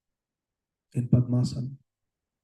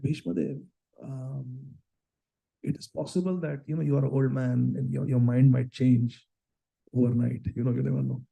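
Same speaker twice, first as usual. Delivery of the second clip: wheedling schemer. Acted. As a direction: coax the old man gently.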